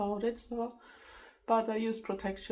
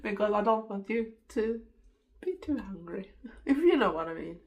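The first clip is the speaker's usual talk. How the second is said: laughing; 4 dB louder than usual. Real, not acted. Joking about eating while watching.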